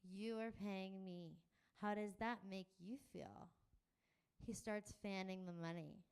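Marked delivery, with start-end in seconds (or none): 0.0-3.5 slowed down as if to a foreigner; patronizing slow delivery; slow and overexplained. Acted. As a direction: spell it out slowly, condescending. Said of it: "as if I don't speak English".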